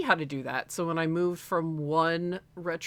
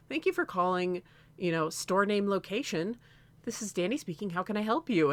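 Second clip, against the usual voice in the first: higher, polite phone greeting; customer service voice; 4 semitones higher than usual. Retold or imitated. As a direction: flip straight into the friendly store voice. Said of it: "I'd pick it up and I'd be like".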